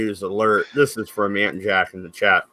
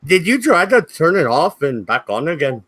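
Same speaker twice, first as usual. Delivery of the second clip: put-on Irish accent; 4 semitones higher than usual. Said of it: "Why are you doing an Irish accent".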